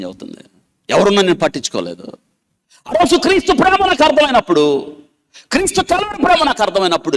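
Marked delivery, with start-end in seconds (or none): 2.9-7.2 much higher, urgent preaching; fervent testimony. Retold or imitated. Preacher retells the woman's realisation of Christ's love, high and fervent. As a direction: rise with her moment of realisation.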